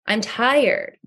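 mock worn-out sigh of a tired server; half-acted fed-up weariness; weary complaint. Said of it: "where you might just say".

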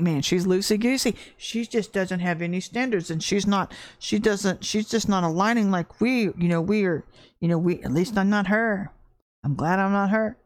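a hint of a snooty gossiping churchgoer; smug gossip. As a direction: sneer at her like a self-righteous church lady. Mimicking judgmental churchgoers.

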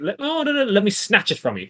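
high, flustered comic squabbling; sitcom scuffle. Retold or imitated. Father and son tussling over letter, comic fluster. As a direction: squabble in a high mock panic. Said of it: "feels like a sitcom".

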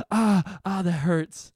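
mock yelps of pain; imitated pain. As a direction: act out wincing at a touch. Acting out pain when wrist touched.

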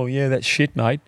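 lightly put-on Australian twang; a quick jokey Aussie voice; Aussie accent. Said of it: "We always do an Aussie accent".

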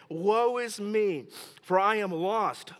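slow, drawn-out woe; trembling prophet's lament. Acted. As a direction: cry it out slowly, in mild dread. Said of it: "He says".

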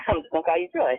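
said quickly through a real laugh. Real, not acted. Playfully claiming a nickname for a friend, laughing.

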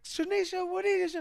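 very high, frantic dad holler; mock panicked parent's yell; yelling at daughter. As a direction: imitate a dad urgently calling his kid. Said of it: "he just yells at his daughter".

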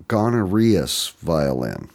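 gonorrheus said slowly for Guarneri; drawn-out mangled gonorrheus; imitated mispronunciation. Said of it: "That's how he pronounced it".

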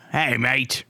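put-on a light, amateur Cockney accent, slowed a little; attempted Cockney thief. Tourist's mugger asks about the bag, amateur Cockney accent. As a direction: have a go at a London street thief in Cockney. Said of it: "Is that your best?".

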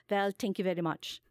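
lightly put-on Pakistani accent; a hint of a Pakistani comic bowing out; imitated Pakistani accent. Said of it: "like, a Pakistani accent".

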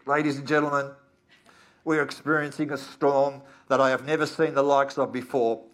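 loud, calm cockpit PA voice; airline pilot announcement. Pretend. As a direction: announce it like a pilot over the intercom. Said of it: "the captain's voice comes over the PA".

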